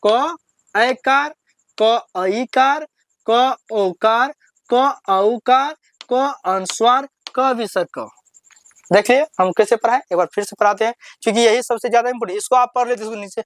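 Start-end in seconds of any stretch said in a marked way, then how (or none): 0.1-8.1 paced chant with pauses between items; teacher leads class recitation; slow recitation drill. Shown as a demonstration. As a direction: recite the list slowly for pupils to repeat. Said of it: "चलिए, मेरे साथ पढ़िए".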